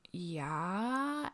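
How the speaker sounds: a small whispered yes; whispered yeah. Retold or imitated. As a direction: breathe the answer out in a whisper. Whispering answer to police officer.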